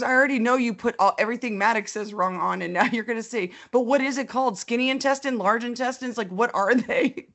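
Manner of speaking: imitating teen daughter. Daughter quoted complaining at length.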